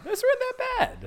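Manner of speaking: falsetto insisting; high squeaky voice. Acted. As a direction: squeak it up in protest. Insisting in a silly voice.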